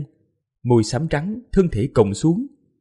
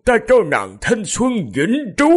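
high, drawn-out grieving vow; sorrowful; 8 semitones higher than usual. A narrator's reading. King vows eternal youth to his dead beloved, sorrowful high voice. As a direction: make a pained promise in a raised voice. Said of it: "đau thương nói".

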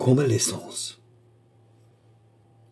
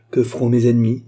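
accusation; 6 dB louder than usual. Acted. Reine accuse Charny.

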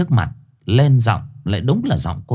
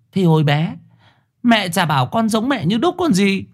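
put-on cheeky boy; 9 semitones higher than usual. Cheeky boy voiced from under bed.

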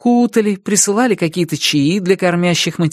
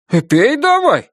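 high, puzzled push to drink; surprised insistence; 8 semitones higher than usual. Acted. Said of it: "удивлённо сказал Виктор Петрович".

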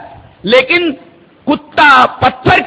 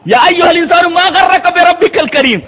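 high, ringing verse recitation; declaimed Arabic verse; Quranic recitation; 7 semitones higher than usual. Real, not acted. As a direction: recite the scripture out at a raised pitch. Preacher recites the verse again.

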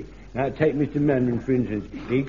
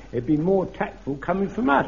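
usual speaking voice

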